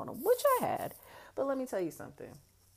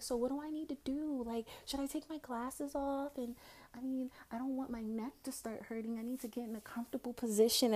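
high-pitched innocent questioning; feigned helpless innocence; playing dumb; 8 semitones higher, 4 dB quieter than usual. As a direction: act like a clueless first-timer. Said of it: "I'm just acting like".

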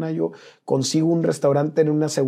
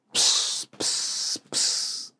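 soft, short "psss" hiss; imitated sizzle; 5 dB quieter, much slower than usual. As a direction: imitate drops hitting a hot griddle, three separate hisses. Imitates drops falling on griddle. (siseo imitado de gotas en la plancha)

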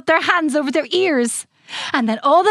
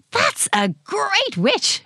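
fairy queen voice; 7 semitones higher, much slower than usual. A narrator's reading. Fairy queen complimenting costumes.

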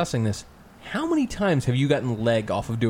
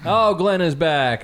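excited announcement; 4 semitones higher, 3 dB louder, slower than usual. Acted. Announcing returning guest.

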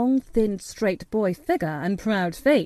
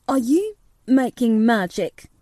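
a sharp, louder demanding question; boy demanding an answer, sharp; sharply; 2 semitones higher, 5 dB louder than usual. A narrator's reading. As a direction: snap the question out. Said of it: "he asked sharply".

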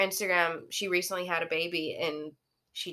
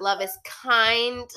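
slow recitation; 4 semitones higher, 4 dB louder, much slower than usual. Pretend. Quoting scripture slowly as a joke.

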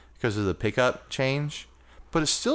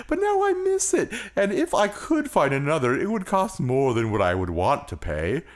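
a hint of a dreamy spaceman; moon voice. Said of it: "I think that was the moon voice".

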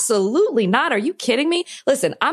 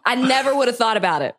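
laughing; 3 semitones higher than usual. Real, not acted. Talking through laughter.

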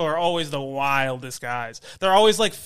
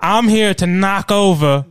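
slow, louder tough-guy pitch; mobster voice; 4 dB louder, much slower than usual. Pretend. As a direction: talk like a mob boss. Mobster candidate slogan.

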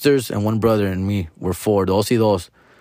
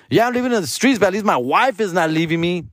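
high, smug mock brother; hammed-up smug sibling; 7 semitones higher than usual. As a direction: gloat it up high again like the brother. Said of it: "He's like".

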